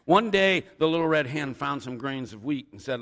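lively read-aloud storytelling; animated picture-book reading; story narration. A narrator's reading. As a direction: read it like a tale for little children. Reads a children's story aloud.

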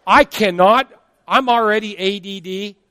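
a hint of a frantic cartoon squirrel; hyper squirrel. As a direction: play the overcaffeinated squirrel, frantic. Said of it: "like that little squirrel on Over the Hedge".

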